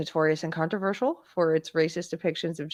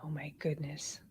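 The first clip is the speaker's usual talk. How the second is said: whispering; 3 semitones lower, 15 dB quieter than usual. Real, not acted. Reacting to the cartoon title.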